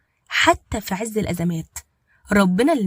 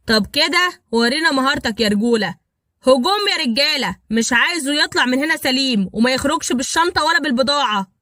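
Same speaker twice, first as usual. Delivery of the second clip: raised, furious gang leader ordering an attack; angry; 4 semitones higher, 4 dB louder than usual. Acted. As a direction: bark the order to attack him. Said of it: "قال بغضب". (بغضب وصوت عالي وهو بيأمر رجالته بالهجوم)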